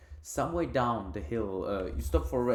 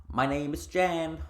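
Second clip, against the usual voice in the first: slow, high little creature introduction; chirpy tiny creature voice; chirping creature; 6 semitones higher, 4 dB louder, slower than usual. Acted. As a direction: pipe it up high and drawn out.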